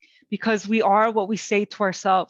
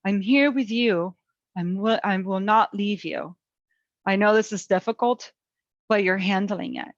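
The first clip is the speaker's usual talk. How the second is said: reassuring inner voice. Shown as a demonstration. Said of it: "you can choose to say".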